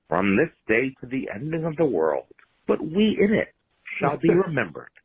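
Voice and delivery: grand theatrical speech delivery; Shakespeare recitation. Pretend. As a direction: declaim it like a stage actor. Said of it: "allow me to quote the Saint Crispin's Day speech".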